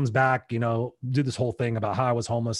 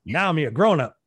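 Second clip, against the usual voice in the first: lightly voiced grown-up addressing seventh graders, half laughing; speaking to kids; 3 dB louder than usual. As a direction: play the returning alum, beaming and a little amused. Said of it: "tell them".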